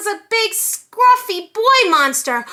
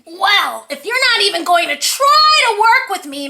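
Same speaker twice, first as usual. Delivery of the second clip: whiny; 3 semitones higher, 5 dB louder than usual. Acted. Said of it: "Mac whined".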